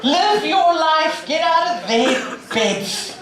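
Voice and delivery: exasperated calling out. Real, not acted. Scolding TV watchers, raised voice.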